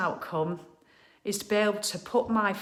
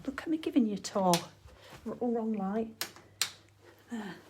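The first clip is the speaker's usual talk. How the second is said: breathless after moving around; slightly winded talking; out of breath; 3 semitones higher than usual. Real, not acted. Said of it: "I'm out of breath".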